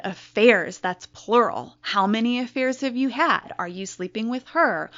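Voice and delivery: wife confronting husband about the plural affairs, yelling; retold screaming. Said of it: "I was screaming".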